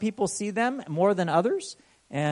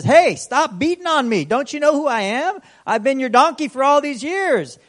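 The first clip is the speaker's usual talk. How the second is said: 1 talking donkey voice; 7 semitones higher, 6 dB louder than usual. Retold or imitated. Donkey speaking in Bible story.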